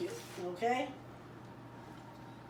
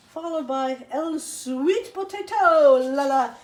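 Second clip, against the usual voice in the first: mock grand announcement; 4 semitones higher, 8 dB louder, slower than usual. Announcing the sweet potato grandly.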